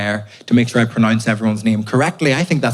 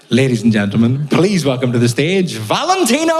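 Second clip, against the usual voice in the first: compere voice. Retold or imitated. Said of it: "'Cause he went".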